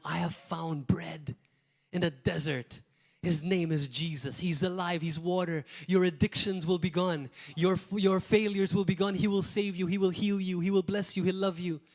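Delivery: fervent preaching. Acted. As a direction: proclaim it with growing fervor. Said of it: "He's telling them".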